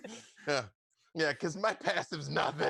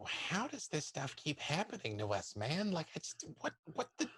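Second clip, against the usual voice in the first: muttered aside, softer; venting to Avery under breath, softer; 2 semitones higher, 6 dB quieter than usual. Acted. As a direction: grumble it quietly to your partner. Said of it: "under my breath to Avery".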